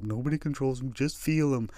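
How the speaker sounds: soothing therapist line, lightly voiced. Group therapist coaching the room, in a soft mock tone. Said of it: "I've done the feelings group".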